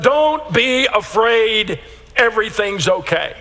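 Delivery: slow, drawn-out, soothing reassurance; reassuring angel. Retold or imitated. Angel calming the shepherds, slow and reassuring. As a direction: stretch it out to calm frightened shepherds. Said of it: "I don't know exactly the way he said it, but".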